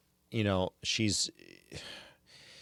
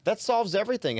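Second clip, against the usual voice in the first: mock relief, pitched way up; overplayed sarcasm, high and a little louder; sarcastic; 13 semitones higher, 5 dB louder than usual. Host ridiculing the cohost's excuse, high sarcastic mock relief.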